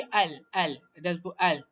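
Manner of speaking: "al" said with an audible lam, not dropped; lam pronounced. Shown as a demonstration. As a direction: sound the L in "al" clearly. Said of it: "Lam tu tidak dihilangkan".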